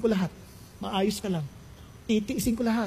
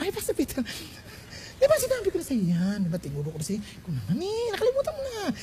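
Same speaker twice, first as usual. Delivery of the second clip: suddenly controlled; 4 semitones higher, 5 dB quieter, faster than usual. Acted. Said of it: "Biglang kontrolado".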